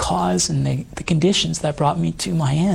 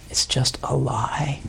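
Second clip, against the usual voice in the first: low aside; 4 semitones lower, 5 dB quieter than usual. Real, not acted. Guest condemns the lie to the host, hushed and grave. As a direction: drop to a low, near-whispered verdict.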